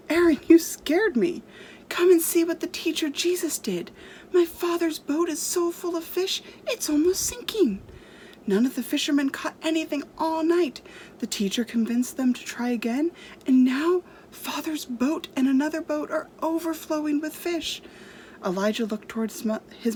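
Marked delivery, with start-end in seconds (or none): 0.1-7.8 higher, louder breathless news; excited child's voice; excited boy. Acted. 8.5-17.8 higher, eager telling; a young boy full of news; excited boy. Acted. Boy continues excited report.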